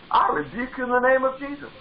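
a firm spoken rebuke in Jesus' name. Shown as a demonstration. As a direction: declare it with authority. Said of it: "You tell them".

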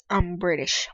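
a hint of a British accent on "I'm British"; mock British accent. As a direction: lightly put on a British voice. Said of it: "No, I'm Australian".

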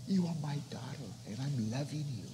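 soft whisper, breathy and intimate; a hushed, loving whisper. Acted. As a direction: whisper it like a tender secret. God's voice voiced tenderly.

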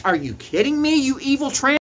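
high, loud furious jab; heated outburst. Real, not acted. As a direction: let the anger boil over into a yell. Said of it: "I'm getting heated".

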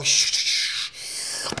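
whispered shh to hush the emotions; shushing whisper. Pretend. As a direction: hush them gently under your breath. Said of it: "and they all go".

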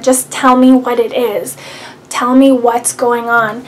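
loud, pressing demand from mom; impatient demand. Retold or imitated. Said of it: "she cornered me and said".

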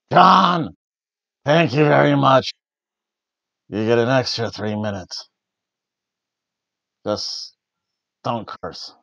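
bad mock Vince bellow; Vince McMahon impression. A fan mocks the boss thanking Cena, in a mild impression. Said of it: "My probably worst ever Vince McMahon impersonation".

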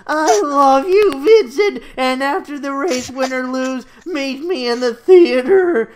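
high, loud laughing-crying fan shout; yells. Acted. Yuffie yelling to Vincent from the audience, a loud tearful fan shout. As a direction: scream your love from the stands. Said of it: "Then Yuffie yells".

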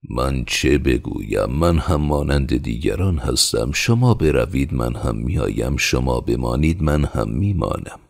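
measured, unruffled answer at ordinary pitch; reply gently, in no hurry; mildly placid villager; calm reply. Acted. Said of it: "به آرامی جواب داد".

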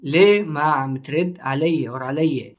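ليه ما عم ترد علي said quickly in one breath; fast native speed. Shown as a demonstration. Teacher repeating ليه ما عم ترد علي for students, quick and natural. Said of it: "Our next sentence is".

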